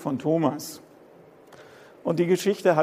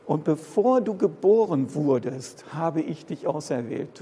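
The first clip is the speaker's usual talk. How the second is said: God speaking tenderly. Acted. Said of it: "er drückt aus".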